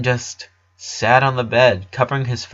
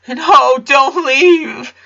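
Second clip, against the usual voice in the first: high, louder desperate plea; begging; 7 dB louder, much slower than usual. A narrator's reading. The son begs his friend to stay, high and desperate. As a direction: beg him not to go. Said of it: "Clyde begged".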